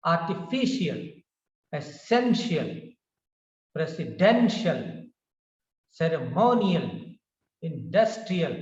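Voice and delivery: Artificial, essential, presidential stressed just before ial. Shown as a demonstration. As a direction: hit the syllable before ial in each word. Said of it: "like this".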